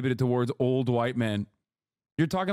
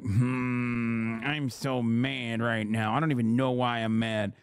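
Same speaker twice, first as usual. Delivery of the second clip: mocking grumpy boomer; 4 semitones lower than usual. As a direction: drag it out like a confused, pouting boomer. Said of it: "big homies in here like".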